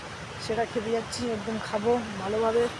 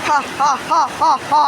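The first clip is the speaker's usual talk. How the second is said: laughing; 5 semitones higher, 8 dB louder than usual. Real, not acted. Laughing after cold bath.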